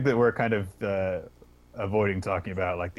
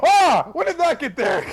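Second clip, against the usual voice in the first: loud, high yelp of fake surprise; feigned shock; 11 dB louder than usual. Intruder pretending to just notice the body, feigned shock. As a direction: bluff with an exaggerated startled cry. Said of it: "I'm going to do a bluff check".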